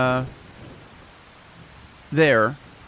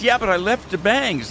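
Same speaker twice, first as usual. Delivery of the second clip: wife's voice pitched much higher; imitating wife; 9 semitones higher, 4 dB louder than usual. Husband imitating his wife about the bangs, high voice. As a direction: play the wife defending herself. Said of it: "And she said".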